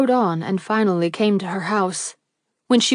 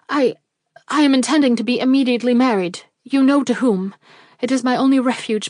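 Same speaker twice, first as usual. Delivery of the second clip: desperate pleading; 2 semitones higher than usual. Acted. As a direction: beg him urgently.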